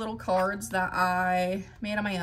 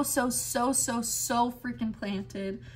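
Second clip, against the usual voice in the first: burping; slower than usual. Real, not acted. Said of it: "Sorry, I'm burping".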